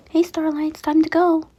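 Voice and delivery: gentle. A narrator's reading. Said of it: "Moon said gently".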